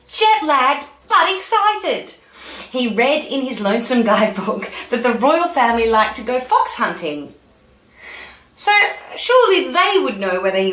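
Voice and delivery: lively read-aloud storytelling; story narration. A narrator's reading. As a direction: read it out like a picture book for children.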